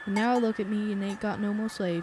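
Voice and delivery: put-on mild southern accent, bitter old man reminiscing; lightly voiced Southern farmer, resentful. Old farmer laments his lost days, light southern accent. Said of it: "I hope you like my southern accent".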